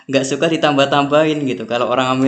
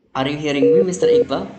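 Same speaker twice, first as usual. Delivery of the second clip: calling out; 2 semitones higher, faster than usual. Real, not acted. Calling out on bad connection.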